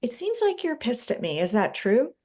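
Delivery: curious, gentle check-in; gentle questioning. Shown as a demonstration. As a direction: ask it openly, not accusing. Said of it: "I say".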